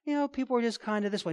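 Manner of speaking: quick, soft, casual brush-off; mock soft-pedalling; sugarcoating. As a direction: gloss it over lightly and fast. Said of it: "not sugarcoating it".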